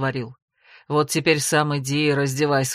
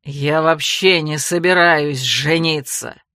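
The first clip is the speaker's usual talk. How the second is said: slow, lower, louder spat-out words; 5 semitones lower, 5 dB louder, slower than usual. Acted. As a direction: spit the last word in disgust. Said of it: "почти выплюнул".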